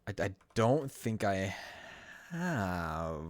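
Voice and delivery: unsure, half-asking tone; questioning. Real, not acted. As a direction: say it as if doubting yourself. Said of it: "I say that very questioningly".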